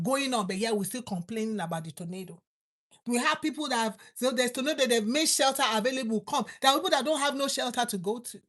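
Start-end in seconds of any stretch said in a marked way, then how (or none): 3.1-8.4 louder, pressing preacher's build; fervent sermon build; rising preaching. Real, not acted. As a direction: push it out to the congregation. Preacher raising voice.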